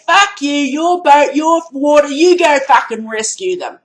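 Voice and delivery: imagined angry retort. Pretend. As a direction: bark it down the phone. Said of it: "I would have said".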